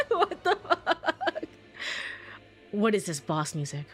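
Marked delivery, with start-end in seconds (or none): 0.1-1.4 slow, high laughing disbelief. Real, not acted. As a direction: drawl it through laughter. Repeat, drawn out laughing.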